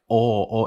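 "Oh" said way back in the mouth; long Minnesotan "Oh", tongue pulled far back; round, back-of-the-mouth "Oh". Shown as a demonstration. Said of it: "it's, like, way back there".

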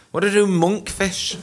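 high, anxious asking for help; high panicked question. Retold or imitated. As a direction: ask like you're lost in the kitchen. Retold panicked text.

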